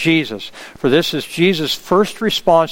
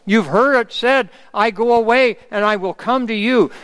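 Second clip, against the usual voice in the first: quoting Jesus, higher and fervent, preaching them out; Jesus's words; 5 semitones higher than usual. Acted. Preacher to congregation, reading Jesus's promise as fervent scripture. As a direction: lift the scripture up with conviction. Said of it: "he says".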